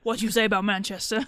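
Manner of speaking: put-on British accent. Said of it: "You want more accents".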